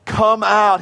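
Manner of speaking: a firm call, imitating Jesus. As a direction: call it out to the listeners. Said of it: "calling out that".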